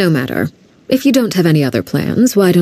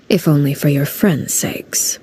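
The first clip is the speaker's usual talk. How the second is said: softly whispered threat; threatening whisper; 3 semitones lower, 4 dB quieter than usual. Acted. The Knave pressuring the travellers, threatening whisper. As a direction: let the menace sit in a whisper.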